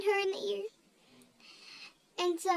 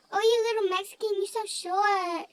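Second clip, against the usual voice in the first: mock taunt back; 2 semitones higher than usual. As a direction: fire back a playful insult.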